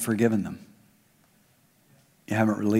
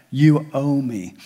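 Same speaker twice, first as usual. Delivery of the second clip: slow grudging quote; slower than usual. Retold or imitated. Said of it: "heard people say that".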